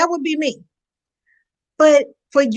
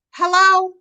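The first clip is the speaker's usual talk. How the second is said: incredulous hello; 6 semitones higher than usual. Real, not acted. Incredulous outrage at hypocrisy.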